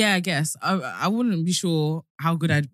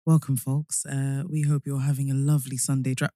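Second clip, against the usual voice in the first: radio voice; 4 semitones lower, 3 dB quieter than usual. Pretend. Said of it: "I really wanna practice my radio voice".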